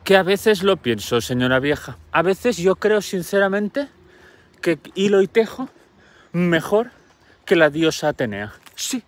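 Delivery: put-on a proud girl telling the old lady she beats the goddess; proud young girl. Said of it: "Y Aracne dijo".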